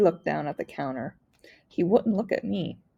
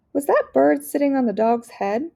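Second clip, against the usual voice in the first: put-on little girl; 7 semitones higher, 5 dB louder than usual. Little girl amazed asks.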